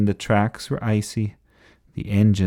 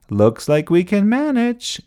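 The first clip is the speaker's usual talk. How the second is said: high, rising triumphant call; yelling; 12 semitones higher, 4 dB louder than usual. A narrator's reading. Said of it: "yelled Alfred".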